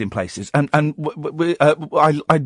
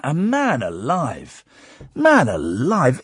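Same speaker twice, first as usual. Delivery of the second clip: drawn-out awe; slow emphatic; 2 semitones lower, much slower than usual. Real, not acted. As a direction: stretch it out slowly. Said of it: "it was terrifying".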